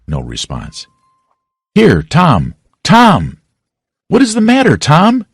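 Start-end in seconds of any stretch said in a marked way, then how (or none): 1.7-5.2 high, rising alarm, calling his name; anxious. Acted. Sid anxiously calling his groaning brother, higher and higher. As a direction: shake him awake, frightened. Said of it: "looked at his face anxiously".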